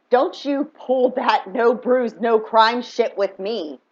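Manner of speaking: slow, deliberate retold warning; a hint of a slow scolding, each word weighed; slow stern warning. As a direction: spell it out word by word, firmly.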